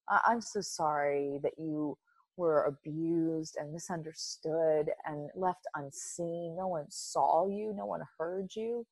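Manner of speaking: tender comfort to little self. Pretend. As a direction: gently soothe the hurt child inside. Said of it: "I pick her up and I say".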